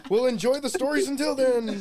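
high, loud, laughing joke line; laughing mock reply. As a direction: blurt it out through laughter. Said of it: "You should be like".

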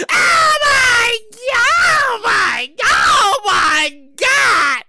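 loud, high drawn-out panicked wail; hammed-up panic with stretched words; panicking teller. Teller handed a note by a masked man, hammed-up panic.

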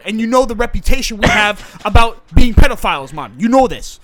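defensive South London man, pleading his case; put-on South London accent; South London actor character.

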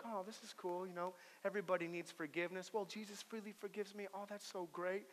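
soft, easygoing imitation of agreement; mock rosy contentment. Congregation hearing the sermon, mock contented murmur. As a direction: muse softly as a contented listener. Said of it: "it sounds kinda rosy".

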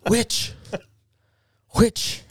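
high squeaky cry of witch; mock witch accusation. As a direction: yelp it like a spooked villager. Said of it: "Tyler would just be there going".

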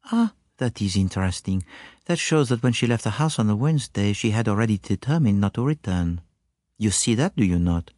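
put-on slight foreign accent, reasoning it out; a hint of the courteous continental sleuth; lightly voiced pensive detective. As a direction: lead the witness gently through a deduction. Poirot draws a deduction.

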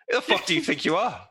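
high, indignant yell; mock angry. Player shoves the heckler, mock outrage. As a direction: challenge the heckler.

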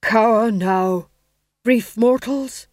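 slow, loud, booming stage Death; hammed-up Death. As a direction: declaim like a ham actor playing Death. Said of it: "his first speaking part".

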